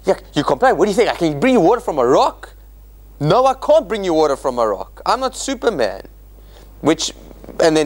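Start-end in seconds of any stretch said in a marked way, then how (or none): 0.0-2.5 mild exasperated Moses; a frustrated, hair-tearing outburst, lightly done; understated exasperation. Retold or imitated. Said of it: "tearing his hair out and he comes and says". 3.2-6.1 sarcastic denial. Retold or imitated. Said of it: "tearing his hair out".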